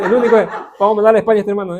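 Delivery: fast, loud, laughing jab at a student; teasing a classmate while laughing; laughing tease. Real, not acted. Teacher jokes about sending a student to Spain, laughing.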